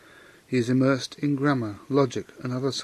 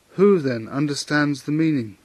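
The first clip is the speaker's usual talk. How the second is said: sudden louder exclamation; bursting out; 2 semitones higher, 5 dB louder than usual. Retold or imitated. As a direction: blurt it out with force. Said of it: "He bursts out".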